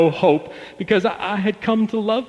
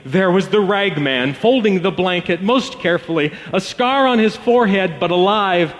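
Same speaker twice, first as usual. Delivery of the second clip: higher and brighter, building; rising wonder; 3 semitones higher than usual. Acted. Narrator seeing the rag man alive, rising in wonder. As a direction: lift toward joy.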